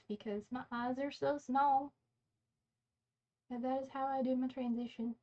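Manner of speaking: lightly put-on southern accent; a hint of southern accent. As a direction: slip into a playful southern twang. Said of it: "started doing a southern accent for no reason".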